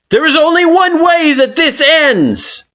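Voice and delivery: high, loud proclamation; declaring. Acted. Kara declaring the ending to you, loud proclamation. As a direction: announce it like a verdict. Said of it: "they declare".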